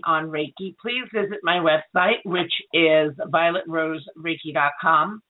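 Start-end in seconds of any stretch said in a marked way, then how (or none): 2.2-5.2 hoarse voice. Real, not acted. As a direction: voice giving out, rough and strained. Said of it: "I'm losing my voice".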